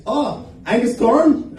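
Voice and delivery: Thorne said with a plain T, slowly rising; slow rising "Angus Thorne?" with a hard T; Uber driver's pronunciation. Retold or imitated. Uber driver recognizing the comic, slow rising question. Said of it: "He says".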